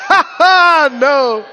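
loud laughing delight; God laughing. Retold or imitated. God laughing at the believer's panic. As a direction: laugh it off joyfully.

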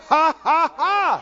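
forced laugh by faith. Pretend. Preacher showing the church how to laugh by faith, deliberate forced laughter. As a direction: push out a laugh you don't feel. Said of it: "you need to do that just by faith".

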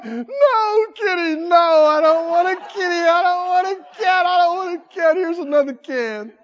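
high, loud, whining no kitty; half-laughing plea to a fat cat; mock desperate owner. Preacher playing a helpless owner under a twenty pound cat, whiny. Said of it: "you'll be going".

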